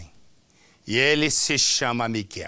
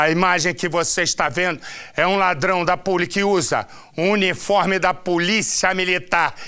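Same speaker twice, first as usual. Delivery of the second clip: raised-voice TV host demanding the footage; calling to the crew; 5 semitones higher, faster than usual. Real, not acted. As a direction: call out impatiently to the control room. Host calls urgently to control room.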